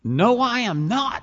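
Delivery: mock English lady, high, loud and slow; strong English accent. Lady in Paris denying she is English, imitated English accent. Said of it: "speaking in this strong English accent".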